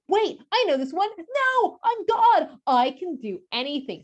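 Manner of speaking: hammed-up almighty; lightly voiced God; playful God voice.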